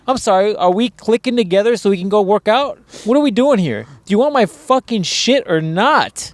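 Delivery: high, exasperated mock politeness; sarcastic retort. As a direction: let the buyer know he's being ridiculous.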